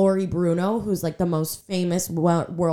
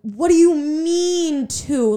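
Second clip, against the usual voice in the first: retold shock; 8 semitones higher, much slower than usual. Retold shock at two rings.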